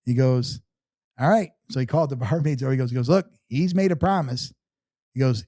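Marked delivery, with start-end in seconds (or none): 1.2-1.5 higher nasal imitation, rising; nasally voice. Buddy accepting the promise, higher nasally voice. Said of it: "he's got a little nasally voice". 3.1-4.5 high, slow nasal imitation; nasally voice. Buddy telling the barmaids, high slow nasally voice. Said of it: "he's got a little nasally voice".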